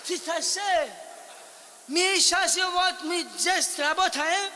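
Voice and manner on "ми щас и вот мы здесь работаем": to someone hard of hearing. Acted. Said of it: "Говори громче".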